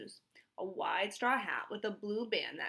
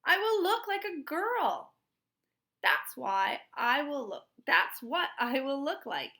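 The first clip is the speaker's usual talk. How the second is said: much higher and louder, disgusted protest; disgusted boy; 6 semitones higher, 7 dB louder than usual. Acted. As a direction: whine it out like a boy forced into a dress. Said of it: "Stanley was so disgusted".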